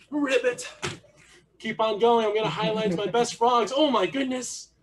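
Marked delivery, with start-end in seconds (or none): 0.1-0.7 higher-pitched frog ribbit; frog noise. Shown as a demonstration. Coach leading froggy jumps, high frog noise. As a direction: stretch out a high ribbit on the jump. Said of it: "the sound that frogs make".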